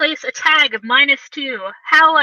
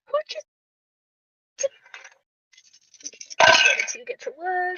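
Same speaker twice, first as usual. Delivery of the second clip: offended villain; 14 semitones higher, 5 dB quieter than usual. Acted. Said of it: "He's just like".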